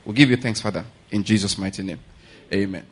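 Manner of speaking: low, measured prayer voice; congregational prayer. Real, not acted. Preacher prays for everybody present, low solemn prayer. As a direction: pray over the people in a low, steady voice.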